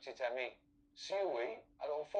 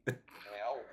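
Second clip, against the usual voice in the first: kitten voice; 4 semitones lower than usual. Pretend. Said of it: "est-ce que tu peux miauler".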